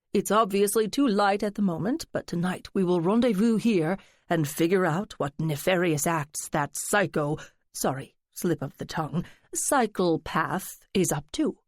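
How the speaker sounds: lightly voiced theatrical friend, coaxing; a hint of a dramatic gossip fishing for secrets; flamboyant friend. Friend teasing narrator to spill her secret, lightly flamboyant. Lance plotting the stakeout.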